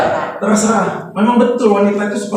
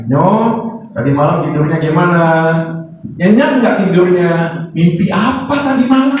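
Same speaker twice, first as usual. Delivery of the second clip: talking to a pet bird; 5 semitones lower than usual. Retold or imitated. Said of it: "ngomong sama burung peliharaannya".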